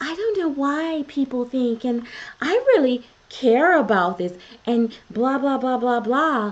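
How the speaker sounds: acted sweet, innocent, butter-wouldn't-melt voice. Going over receipts, the speaker mimics someone's video, in a mock innocent, sweet voice. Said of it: "that innocent, sweet voice of".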